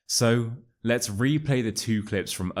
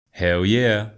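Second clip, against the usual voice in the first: put-on American accent; 6 dB louder than usual. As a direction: play Chad, an American bro. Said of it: "are you in England, Chad?".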